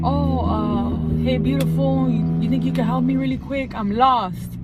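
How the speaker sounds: a mild imitation of a stranger's friendly approach; man asking for directions. A man calls to a woman from his car window, lightly imitated. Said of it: "he rolls the window down".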